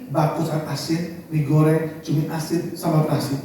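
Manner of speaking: low, soft recital of dishes; retold meek answer. Wife tells mother-in-law what she cooked, meek and low. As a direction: list the dishes quietly. Menantu menjawab mertua soal masakan.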